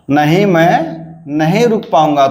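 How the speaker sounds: "नहीं, मैं" rises, pause, then "पाऊंगा" falls; negative-sentence tune. Shown as a demonstration. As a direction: hold "मैं" up, let "रुक पाऊंगा" descend. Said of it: "नहीं का तीन".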